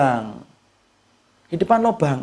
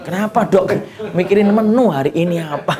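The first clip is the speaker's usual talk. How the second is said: laughing mock question. Acting mother asking doctor, laughing.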